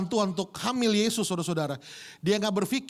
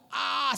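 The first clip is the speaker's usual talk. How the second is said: imitated scream; 5 semitones higher than usual. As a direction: mimic a labor-pain scream. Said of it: "Dia teriak". (teriakan kesakitan tiruan)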